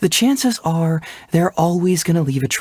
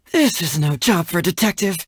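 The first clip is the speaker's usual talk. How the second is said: ordinary talk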